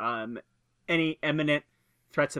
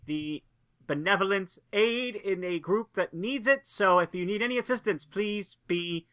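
raised, high-pitched voice addressing unseen strangers; calling up; 5 semitones higher than usual. Acted. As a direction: call up an official offer of help, haltingly. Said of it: "I shout up, like".

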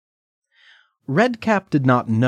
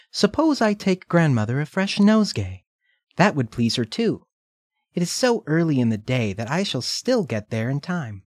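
put-on little girl voice; 6 semitones higher than usual. Redcap thinks aloud.

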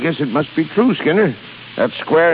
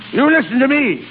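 high-pitched, angry confrontation; irate boss scolding a sailor; stern accusation; 5 semitones higher than usual. Acted. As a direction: demand his attention, then accuse him.

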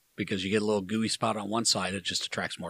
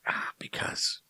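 whispering; slower than usual. Real, not acted. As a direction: keep it to a whisper. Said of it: "I usually yell that part".

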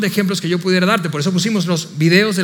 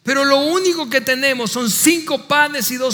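disciples' protest; 5 semitones higher than usual. Acted. Disciples telling Jesus they have only loaves and fish, protesting. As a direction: protest how little there is, pitched up. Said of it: "echaron excusas".

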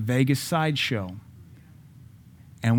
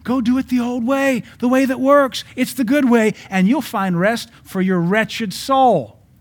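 high, loud booming divine command; loud, slowed divine pronouncement; voice of God; 10 semitones higher, 4 dB louder than usual. Acted. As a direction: proclaim it as God answering his people. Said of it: "God said".

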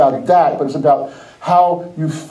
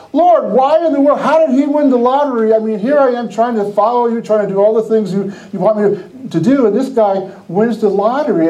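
higher-pitched mock complaint to God; exasperated plea; 4 semitones higher than usual. Envious believer asking the Lord why, exasperated. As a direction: plead as if wronged, retold for laughs.

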